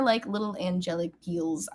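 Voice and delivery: normal talking voice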